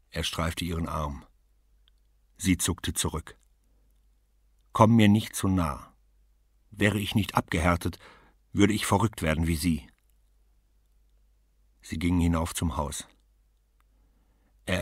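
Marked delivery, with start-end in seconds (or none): 4.7-9.9 sharp rejection. Acted. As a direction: hold him off coldly. She recoils from him.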